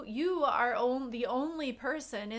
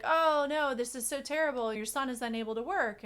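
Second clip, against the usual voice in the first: alarmed townspeople; 5 dB louder than usual. Retold or imitated. Townspeople voiced in a parable.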